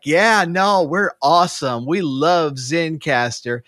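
lightly hammed-up eager agreement; teasing impression of smug co-hosts; mock proud podcasters. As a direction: imitate them bragging, a bit high at first. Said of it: "That's my impression of them".

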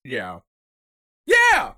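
choking on a bug, then a yelp; coughing up a swallowed bug; just swallowed a bug. Real, not acted. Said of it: "Are you okay, man?".

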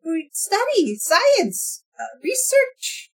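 Jake creature insisting. Acted.

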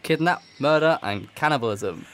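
put-on Australian accent. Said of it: "Australian accents aren't good".

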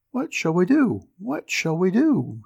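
a worried mother at her wits' end; anxious widow. A narrator's reading. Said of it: "wringing her hands".

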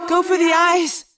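high, loud fierce command; girl ordering a fierce strike. Acted. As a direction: order the attack. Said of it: "Cassie said grimly".

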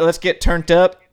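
drawled country twang; hillbilly accent. Retold or imitated. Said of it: "say it like a hillbilly".

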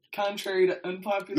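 laughing. Real, not acted. Laughing quoting inside joke.

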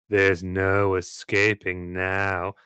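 slow, cold, menacing threat. Acted. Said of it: "I'll show that again then".

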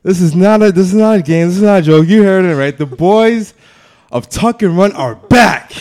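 booming ringmaster, high and loud. Acted. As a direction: announce like a circus ringmaster. Grand show opening announcement.

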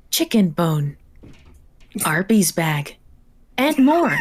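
a hint of a robot lady; lightly voiced robot lady narrator. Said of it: "Excellent character voice for the robot lady".

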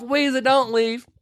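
high, drawn-out theatrical call; calling after her. Retold or imitated. Retelling Clary as Weezer storms off, high drawn-out call. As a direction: stretch out a pleading call.

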